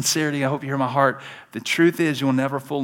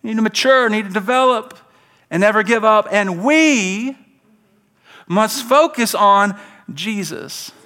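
each key word hit high and loud, paused between; emphatic with pauses; 6 semitones higher, 4 dB louder than usual. Shown as a demonstration. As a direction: stress mature, develop, never give up. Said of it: "with all the highlighted words and pauses".

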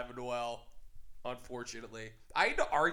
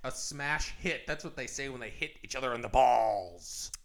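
radio guy voice; 3 semitones lower than usual. Acted. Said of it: "I keep doing my radio guy voice".

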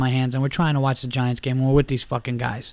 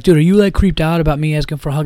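put-on whiny drunk; 3 semitones higher, 5 dB louder, faster than usual. Drunk pestering waitress.

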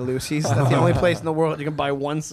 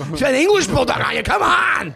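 exasperated whine; 10 semitones higher, 5 dB louder than usual. Real, not acted. Pleading exasperated at Anya.

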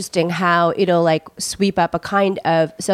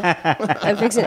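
put-on slow laughing Southern accent; slower than usual. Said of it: "Southern accents".

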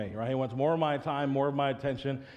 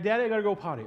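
put-on higher whiny kid; little son's voice; 7 semitones higher, 4 dB louder, faster than usual. Child voice quoted.

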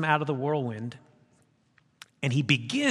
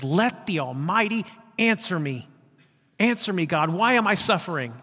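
louder, pleading demand to God; emphatic plea; 3 semitones higher, 4 dB louder than usual. Acted. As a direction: cry out to God for an answer. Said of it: "he even emphatically says".

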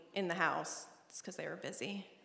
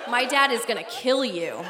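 louder, laughing threat; laughing warning; 4 semitones higher, 8 dB louder than usual. Retold or imitated.

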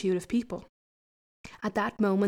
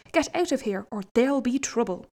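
shouting; 3 semitones higher than usual. Acted. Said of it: "he shouted".

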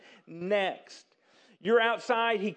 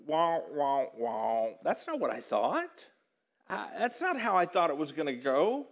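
lower, sinking disappointment; deflated; 4 semitones lower than usual. Acted. Employee seeing that others got more, deflated. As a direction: act out excitement draining away.

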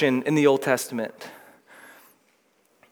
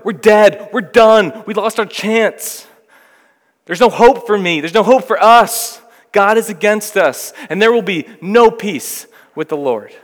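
loud anguished cry of a hopeless people; exiled Israel crying that God is against them, loud despair; despairing lament; 5 semitones higher, 5 dB louder than usual. Retold or imitated. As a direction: wail it out like a people with no hope left.

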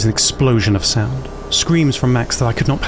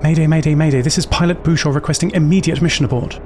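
mayday radio call; 3 semitones higher than usual. Acted. Pilot radios distress call.

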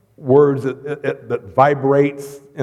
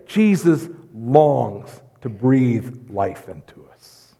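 slow tender; 3 semitones lower, much slower than usual. Acted. Tender climax of sermon.

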